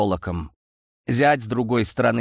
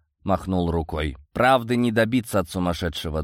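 usual speaking voice

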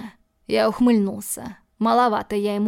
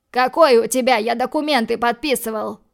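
indignant shout; 2 semitones higher, 5 dB louder than usual. Acted. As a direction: yell it like you've been cheated. Angry guest protests over documents.

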